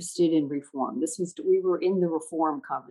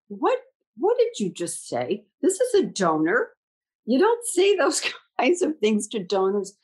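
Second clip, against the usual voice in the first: mock shocked self-rebuke; 5 semitones higher than usual. Her own shocked inner thought.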